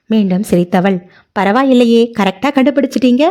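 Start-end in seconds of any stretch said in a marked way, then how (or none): 1.4-3.2 delighted teasing. Acted. Nithya pleased he guessed.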